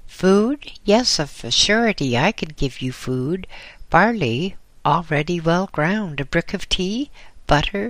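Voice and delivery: lightly voiced old caretaker, bustling and generous. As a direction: fuss kindly over the hungry traveller. Old caretaker offers food.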